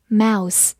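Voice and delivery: "mouse" ending in a plain s; final s sound. Shown as a demonstration. Teacher contrasting near-homophones for learners, "mouse" with a clear final s. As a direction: finish "mouse" on s, tongue behind the teeth. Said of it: "S E发的是平舌音s".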